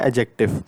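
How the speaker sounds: एडजेक्टिव pronounced "ajective", no D sound; silent D. Shown as a demonstration. Teacher repeating the word एडजेक्टिव for learners, silent D. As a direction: skip the D in एडजेक्टिव and go straight to J. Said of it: "यहाँ पे डी silent होता है".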